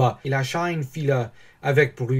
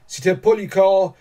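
raised, lively, delighted voice; joyful; 5 semitones higher, 4 dB louder than usual. A narrator's reading. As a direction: share proud news of an uncle with delight. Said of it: "tout joyeux". (joyeux, voix animée)

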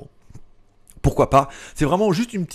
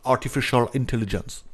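lightly put-on American accent. For the Americans among viewers, a light American accent. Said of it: "Pour les plus américains d'entre vous".

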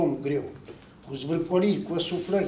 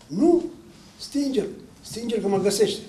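much higher, urgent begging; panicked plea; 5 semitones higher, 3 dB louder than usual. Acted. Husband afraid of being found in the light, panicked. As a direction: burst out loud, then plead in fright. Woken man begs for darkness.

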